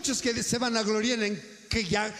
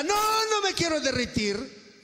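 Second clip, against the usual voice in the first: the ice's mild mock yell of protest; mock shout; 4 semitones higher than usual. Preacher voices the ice begging, mock shout. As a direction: cry out "No, no me quiero derritir" as the melting ice, half-hammed. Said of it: "Y si el hielo grita".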